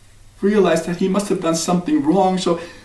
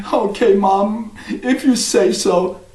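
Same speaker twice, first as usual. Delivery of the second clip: put-on slow, higher resigned boy; 5 semitones higher, slower than usual. Jack sadly agrees with his mother, slow and higher. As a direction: give in reluctantly.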